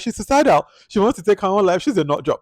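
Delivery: high, loud mock gossip; gossiping onlookers. Passengers dismissing Laura, high mock gossip. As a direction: dismiss her like scornful passengers. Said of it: "they're like".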